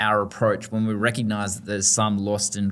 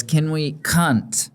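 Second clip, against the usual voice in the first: put-on slow, drawn-out kid's question; toddler's request; 6 semitones higher, much slower than usual. Mother imitating her toddler, slowly. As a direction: slowly spell out what the boy kept asking. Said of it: "eventually he goes".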